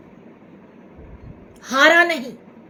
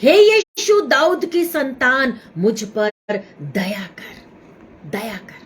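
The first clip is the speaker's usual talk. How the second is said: blind beggar's plea; 2 semitones lower than usual. Retold or imitated. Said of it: "इस व्यक्ति ने बोला".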